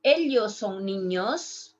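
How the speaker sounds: neutral accent, Ellos with a light ly; neutral Spanish accent. Shown as a demonstration. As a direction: demonstrate neutral South American Spanish. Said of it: "My pronunciation is neutral".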